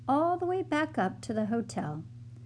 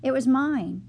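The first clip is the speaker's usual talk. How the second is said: loud confession; 3 semitones higher, 7 dB louder than usual. A narrator's reading. Tilly confesses loudly.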